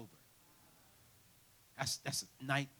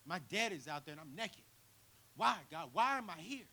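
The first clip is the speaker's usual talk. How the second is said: mildly raised desperate plea; a touch of panicked prayer; 4 semitones higher, 8 dB louder than usual. Retold or imitated. Son crying out to God from the car, mild desperation. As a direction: plead with God, a bit louder. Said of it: "I'm sitting like".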